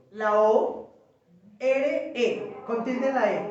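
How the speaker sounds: "La O, R, E" said letter by letter; spelling out. Shown as a demonstration. Teacher spells a Hebrew term for the class, spelling out. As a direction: spell it for note-takers, each letter on its own. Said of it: "¿Cómo se escribe?".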